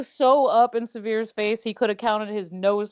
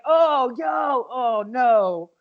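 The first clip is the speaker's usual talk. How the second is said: alarmed; 4 semitones higher, 4 dB louder, much slower than usual. Retold or imitated. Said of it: "And then I was like".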